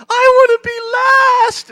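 put-on high, drawn-out kid scream; child's shouting. Child in the shower with dad and siblings, shouting. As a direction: yell it like a squabbling child. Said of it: "they're shouting and screaming and Hope's going".

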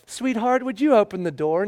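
sweet, patient plea to a locked door; gentle coaxing. Retold or imitated. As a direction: coax the child gently. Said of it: "gently go".

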